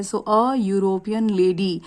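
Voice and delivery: very slow, deliberate model sentence; slow, careful classroom demonstration; slow teacher model. Shown as a demonstration. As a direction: read it out slowly for the class to copy. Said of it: "ए लगाया है।".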